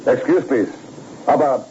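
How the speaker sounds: light put-on German accent, polite and halting; a detective playing a German gentleman, with a mild German accent. Detective phoning the club posing as a German gentleman, light German accent. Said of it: "you could spout German".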